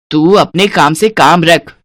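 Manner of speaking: lightly voiced stern older woman; domineering mother-in-law. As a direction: warn your daughter-in-law off. Mother-in-law threatens daughter-in-law.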